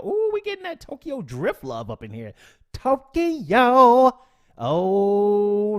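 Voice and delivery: loud, high, thrilled cry of "Tokyo"; a real burst of excitement; excited about Tokyo. Real, not acted. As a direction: get hyped at the word Tokyo.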